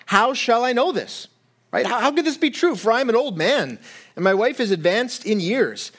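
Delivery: a hint of a doubting old man; doubting Zechariah. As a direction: plead the doubt, a touch incredulous. Pastor voices doubting Zechariah.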